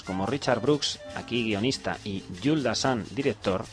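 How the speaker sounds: measured read of a written film review; radio presenter reading a review; reading aloud. Real, not acted. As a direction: read the critic's text out in full phrases.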